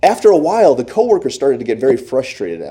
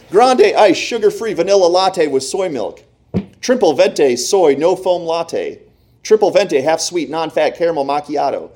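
yelled drink orders; 4 semitones higher than usual. Retold or imitated. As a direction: bark the orders down the line like busy baristas. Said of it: "now they're yelling drinks out at me".

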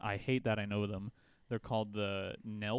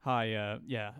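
caller voice; 3 semitones higher, 5 dB louder than usual. Retold or imitated. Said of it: "It's like".

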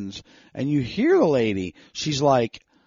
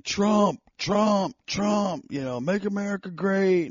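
retold yell, pitched well up without full volume; imitated yelling; 9 semitones higher than usual. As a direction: imitate a voter crowing a slogan. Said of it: "one guy was yelling".

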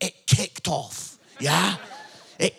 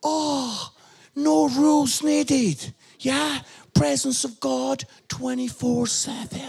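pious Christians; 3 semitones higher, slower than usual. Retold or imitated. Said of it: "some of you Christians would be like".

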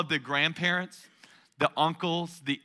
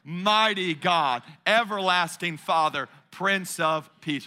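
louder recitation. Shown as a demonstration. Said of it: "let's say it a little bit louder".

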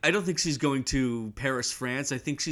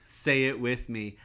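slow, lower guide cue; fake tour guide; 3 semitones lower than usual. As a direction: coax the group to repeat. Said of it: "fake-ass tour guide".

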